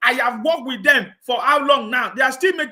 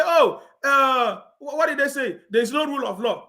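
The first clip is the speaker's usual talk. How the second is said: mock critic complaint; 4 semitones higher than usual.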